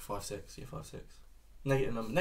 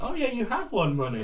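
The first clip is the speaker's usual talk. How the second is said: cashier voice; 11 semitones higher than usual. Retold or imitated. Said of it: "the cashier went".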